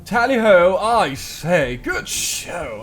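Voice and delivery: put-on high, loud posh British accent; hammed-up posh British accent. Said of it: "a guide to British accents".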